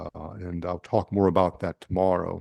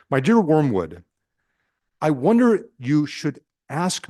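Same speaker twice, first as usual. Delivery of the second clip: measured, deliberate literary reading with weighted pauses; reading aloud; 3 semitones higher than usual. A narrator's reading. Preacher reading a demon's letter to a retreat group, in deliberate read-aloud style. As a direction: read it out phrase by phrase.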